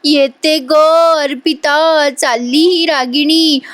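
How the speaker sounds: milk the exit with fake tears; mock crying farewell. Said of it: "म्हणते रडता रडता".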